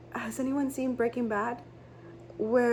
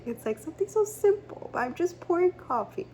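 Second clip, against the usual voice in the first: excited emphasis; 7 semitones higher than usual. Real, not acted. Repeating her point, more excited.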